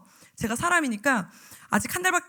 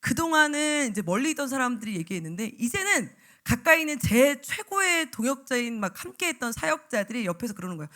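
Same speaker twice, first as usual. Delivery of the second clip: ordinary delivery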